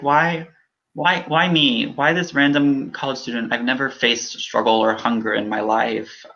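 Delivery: retelling a stranger's words and fighting tears; choked-up disbelief. Retold or imitated. Choking up asking why me. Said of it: "I was like".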